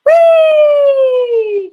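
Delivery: very high, loud sustained "Wee!". Shown as a demonstration. Coach showing students a high "Wee!" warm-up. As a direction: soar up on a long bright "Wee!". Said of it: "So we go".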